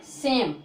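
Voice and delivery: सेम में ए की आवाज़ खींचकर; लंबा उच्चारण. Shown as a demonstration. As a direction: say सेम with a long, drawn-out ए and silent final e. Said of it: "इसका उच्चारण थोड़ा लंबा करेंगे". (सेम, ए को थोड़ा लंबा करके)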